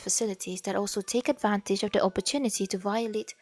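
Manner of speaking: reading aloud in accented English; formal read-out with an acquired English accent. Real, not acted. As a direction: let an accent creep into the English as you read. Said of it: "kenapa akak punya English ada accent".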